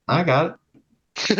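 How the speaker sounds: high, drawn-out imitation of dad; imitated dad. Son quotes dad offering to move the car, imitated dad. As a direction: put on a high, slow dad voice. Retelling dad's casual reply.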